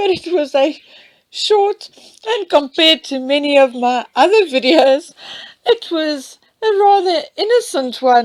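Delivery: high, giggling talk, laughing while speaking.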